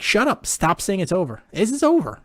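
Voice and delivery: high, loud, annoyed yell; yelling at dad. Retold or imitated. To his father who says it is over, an angry yell. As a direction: snap at him to stop jinxing it. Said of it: "And I'm like".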